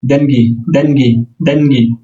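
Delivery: দেনগি as Russian dengi; Russian money word. Shown as a demonstration. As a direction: say দেনগি as DYEN-gi. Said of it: "Russian হলো". (রুশ উচ্চারণে দেনগি)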